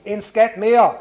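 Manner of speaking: high, loud and thrilled; boy's excited storybook cry; jubilant shout. A narrator's reading. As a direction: call out another find in the story. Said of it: "råbte Lille Virgil".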